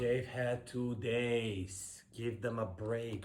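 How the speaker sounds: slow, drawn-out exasperation; exasperated. Real, not acted. Defending dancers who only had two days, exasperated. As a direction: drag out each word in protest.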